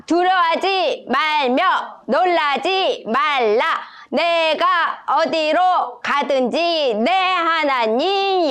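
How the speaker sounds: spirited soldier-style recitation, slow; march through the verse like a bold soldier; firm, slow soldier cadence; brave like a soldier. Shown as a demonstration. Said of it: "씩씩하게 군인처럼 읽을 거예요".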